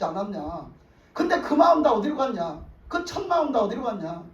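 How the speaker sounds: mildly acted telling-off; imitating a prophet's reproach; retold scolding. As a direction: take Saul to task, without shouting. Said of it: "막 야단을 치니까".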